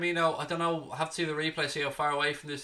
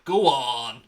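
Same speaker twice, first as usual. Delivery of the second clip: triumphant cheer; 2 semitones lower, 6 dB louder than usual. Real, not acted. Cheering the goal.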